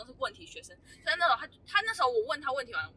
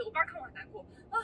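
tearful; 8 semitones higher, 7 dB quieter, faster than usual. Real, not acted. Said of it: "怎么第一集就要哭".

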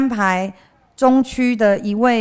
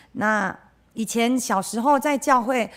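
ordinary delivery

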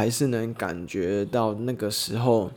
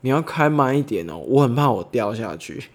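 joking tone; 3 semitones higher, 4 dB louder than usual. Retold or imitated. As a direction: tease him lightly about the cliff. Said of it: "我带着开玩笑的口气跟他说".

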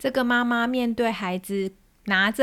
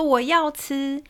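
put-on child pleading; 5 semitones higher, 4 dB louder, slower than usual. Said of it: "孩子又说".

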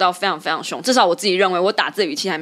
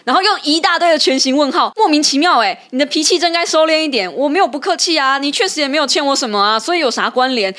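heated; 6 semitones higher than usual. Real, not acted. Host retelling the member's question-mark reply to co-host, heated. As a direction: fire it off, still worked up.

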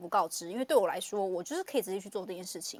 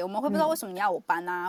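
louder and fast, protesting; fast, aggrieved whine; mock indignant complaint; 4 dB louder, faster than usual. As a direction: act the irritated parent who won't move. Acting out the parent's complaint.

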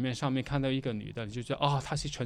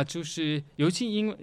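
ordinary talk, nothing marked

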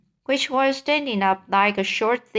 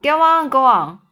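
eager interest; 4 semitones higher, 7 dB louder than usual. A narrator's reading. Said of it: "beginning to glow interest".

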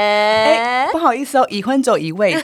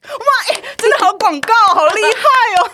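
high, delighted wow of amazement; excited; 13 semitones higher, 4 dB louder than usual. Real, not acted. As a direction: gush over the performance. Impressed reaction to the ad.

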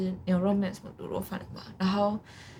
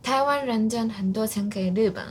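put-on Japanese accent. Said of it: "一段日本腔那样子".

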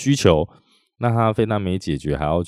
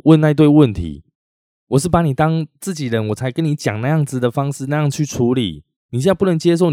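higher and louder, fast at first, rising in fury; angry outburst; 6 semitones higher, 3 dB louder than usual. Retold or imitated. Repair shop owner yelling at a doubting customer, angry and high. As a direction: let the indignation boil over, he feels insulted. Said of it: "我可以确定他是在生气啦".

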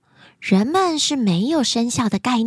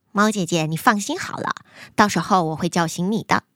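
little mouse brother; 4 semitones lower, faster than usual. Acted. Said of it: "老鼠弟弟说".

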